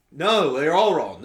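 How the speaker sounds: loud, drawn-out mock-royal "No"; prince overruling the actors. The prince correcting all the Hamlets, loud and theatrical. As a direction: overrule them grandly, stretching the first word. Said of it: "the prince came up and was like".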